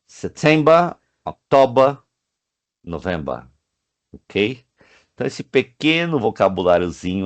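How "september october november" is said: teacher answering; month list. Shown as a demonstration. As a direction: answer with the months, dropping at the end. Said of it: "When is it in Brazil?".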